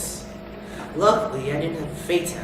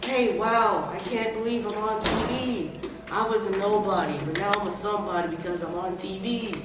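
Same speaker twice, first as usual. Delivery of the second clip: high, giddy and thrilled; like a starstruck nobody on TV; excited; 4 semitones higher than usual. Acted. Guest thrilled to be on TV.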